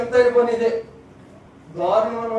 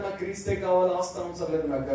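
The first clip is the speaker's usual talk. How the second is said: softer, firm and settled; quiet resolve; 3 semitones lower, 6 dB quieter than usual. Retold or imitated. Son answering his angry father, quiet and firm. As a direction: say it quietly but sure.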